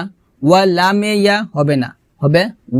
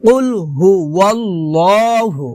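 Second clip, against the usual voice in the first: recited model. Shown as a demonstration. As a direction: draw out "ওয়াল্লাহু" with a dark o. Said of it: "ল হবে".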